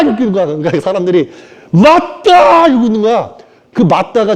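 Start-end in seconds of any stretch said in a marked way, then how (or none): 1.7-2.7 흉내 낸 외침. Retold or imitated. 사람들이 깨달은 척 외침.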